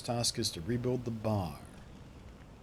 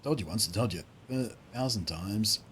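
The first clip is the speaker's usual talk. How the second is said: light Australian miner voice; lightly put-on Australian accent. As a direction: grumble in a mild Australian accent. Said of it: "they write these guys with Australian accents".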